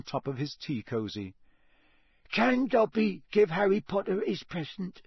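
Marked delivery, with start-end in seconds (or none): 2.3-5.0 high, hesitant house-elf voice; tentative squeak. A narrator's reading. Dobby offers Harry his present, tentative squeak. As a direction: ask timidly in a squeaky elf voice. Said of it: "he squeaked tentatively".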